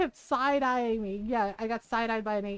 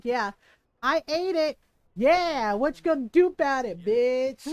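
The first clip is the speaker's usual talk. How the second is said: sassy duck voice; 4 dB louder than usual. Retold or imitated. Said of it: "She was, like, quacking".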